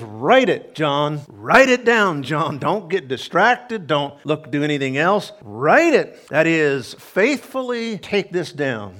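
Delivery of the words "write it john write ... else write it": commanding voice of the Lord. Acted. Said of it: "He says".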